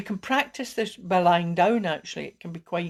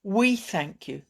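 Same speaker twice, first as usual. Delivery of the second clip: sincere affirmation; slower than usual. Shown as a demonstration. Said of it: "So just".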